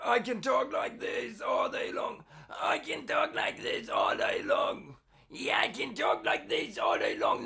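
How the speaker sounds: fast, steady, breathy, supported vocal fry. Speaker demonstrating a vocal technique by repeating one sentence, in supported vocal fry. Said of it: "supported fry".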